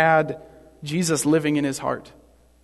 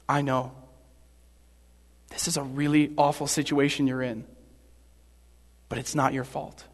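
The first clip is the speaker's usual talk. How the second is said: Jesus; 4 dB quieter than usual. Acted. Jesus reassuring Pilate in his hard spot, calm and soft. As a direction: soothe quietly, leaving room between phrases. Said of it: "Jesus just calmly, coolly says".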